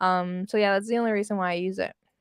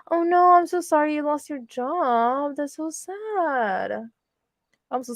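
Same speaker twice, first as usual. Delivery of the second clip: gasp, then console them with long, sorry vowels; sympathetic; 4 semitones higher than usual. Real, not acted. Streamer consoling a viewer who lost their job, sympathetic.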